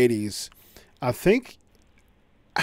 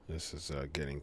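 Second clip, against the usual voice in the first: call dropping out; 10 semitones lower, 21 dB quieter than usual. Real, not acted. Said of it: "this call keeps dropping".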